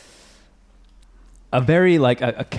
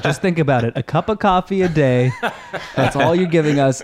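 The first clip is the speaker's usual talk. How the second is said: mock fundraiser plea, higher and louder, laughing through it; church pledge drive pitch; 4 semitones higher, 4 dB louder than usual. Retelling the church's fundraising appeal to podcast hosts, mock pledge pitch. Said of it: "They're like, they're like".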